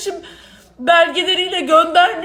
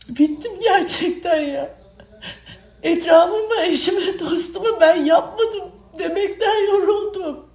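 crying. Real, not acted. Weary complaint, crying heard.

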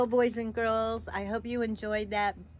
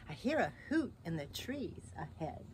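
low, softer monster voice; hushed storybook monster, pitched down; wary Gruffalo; 5 semitones lower, 8 dB quieter than usual. Acted. Gruffalo listens on the walk.

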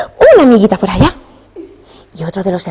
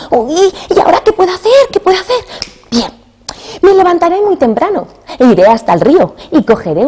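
put-on little boy voice; 2 semitones higher than usual. Pulgarcito worrying, then planning.

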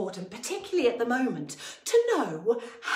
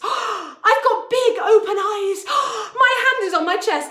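surprised; 9 semitones higher, 5 dB louder than usual. Pretend. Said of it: "I feel so surprised".

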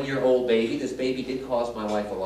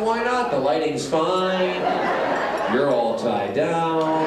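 pushy retort; 4 dB louder, slower than usual. Retold or imitated. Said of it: "I said".

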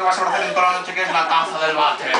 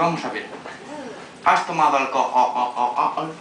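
stern slow interrogation; 5 semitones lower, much slower than usual. Retold or imitated. Mother interrogating drunk teen.

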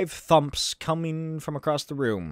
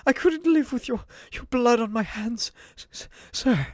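higher, pleading butler voice; Alfred voice; 8 semitones higher than usual. Acted. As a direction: beg your master gently, voice raised high. Alfred voice stammering.

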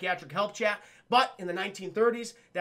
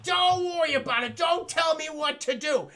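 high, loud defiant retort; hammed-up high shouting back; mock indignant shout; 8 semitones higher, 5 dB louder than usual. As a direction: shout him down like you won't be bossed. Evie snapping at husband.

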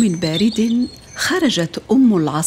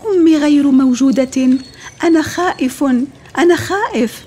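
high, loud, panicky cry, climbing higher; a small bird shouting in fear, going ever higher; frightened chick crying out; 5 semitones higher, 4 dB louder than usual. A narrator's reading. Smallest chick calls out to the fox, scared and shrill-high. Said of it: "وصرخ الفرخ الأصغر".

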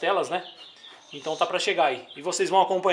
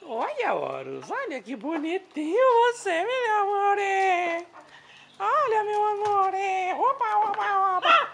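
much higher, slow, cooing pet talk; slower than usual. Real, not acted. Falando carinhoso com o pássaro. (voz de bebê carinhosa para o pássaro)

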